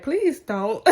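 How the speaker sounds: laughing while begging her not to; the examiner laughing, please don't. Retold or imitated. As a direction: say it through a laugh. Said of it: "she was like".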